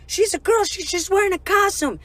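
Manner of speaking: high-pitched mock chorus of girls; retold high girly protest; voicing protesting girls. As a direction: pitch it way up, like friends piping up in defense. Girls defend friend to bouncer.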